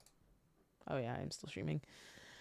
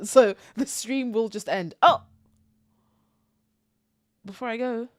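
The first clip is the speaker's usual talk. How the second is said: ordinary delivery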